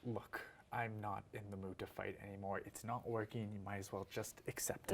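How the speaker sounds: soft, tired, giving up; weary and quiet. Acted. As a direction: say it drained and defeated. Tired, not wanting to fight.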